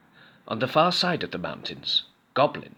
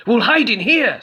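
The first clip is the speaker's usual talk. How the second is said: high, loud urgent goblin; 12 semitones higher, 8 dB louder than usual. A narrator's reading. Goblin to Skeleton, high urgent goblin. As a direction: urge your friend into the cave. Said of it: "said Goblin".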